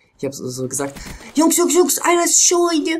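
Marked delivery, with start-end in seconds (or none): 1.3-3.0 heavy put-on Russian accent, very high and loud. Retelling a call he once made mid-game to his team: heavy Russian accent. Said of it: "mit so übelst russischen Akzent Scheune ausgesprochen".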